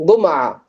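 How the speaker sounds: கும்ஆ starting with hard G as in "go"; Egyptian hard G. Shown as a demonstration. Teacher showing Egyptian Friday, கும்ஆ with hard G. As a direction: say கும்ஆ with G replacing J. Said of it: "எப்படி சொல்லுவாங்க".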